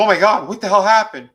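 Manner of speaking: high, loud startled cry; hammed-up horrified shout; mock alarmed shriek. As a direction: act out her shock at the hand. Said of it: "looks at it and goes".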